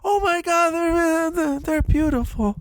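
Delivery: high, put-on delighted wife; wife's forced delight. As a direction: fake enthusiasm over the gift. Wife voiced receiving peach roses.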